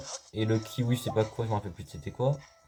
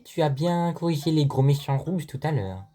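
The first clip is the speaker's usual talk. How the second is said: 1 game character voice; 6 semitones higher, 3 dB louder than usual. Pretend.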